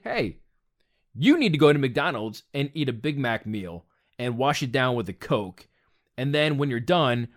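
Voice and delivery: a low, sly devil on the shoulder; sly tempter's voice. Retold or imitated. Voicing imaginary tempter.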